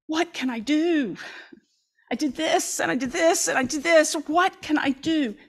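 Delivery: a hint of a tender, pleading mother. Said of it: "what voice you should hear here is the mother".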